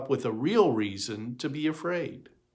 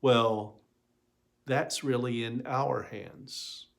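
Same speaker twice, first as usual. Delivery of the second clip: gentle. Acted. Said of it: "with all the gentleness in the world".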